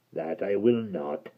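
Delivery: low gravelly creature voice; hideous creature speaking low; deep creature voice. Acted. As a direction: rumble it like a hideous lake creature. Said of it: "said the Mudlik".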